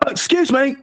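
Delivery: high, prim teacher voice. Retold or imitated. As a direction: mimic a fussy teacher. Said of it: "I'm like".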